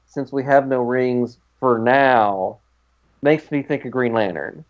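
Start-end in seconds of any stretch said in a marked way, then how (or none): 0.1-2.6 slow "Since we have no rings for now"; Diggle. Retold or imitated. Diggle marrying them, slow hinting "for now". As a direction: draw out "for now" as a knowing hint. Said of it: "the way he says that".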